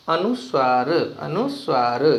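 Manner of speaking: अनुस्वार said slowly, each syllable clear; slow teaching demo. Shown as a demonstration. Teacher showing pupils how to say अनुस्वार, slowly. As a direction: spell out अनुस्वार slowly for the class. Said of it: "देखिए, first है अनुस्वार".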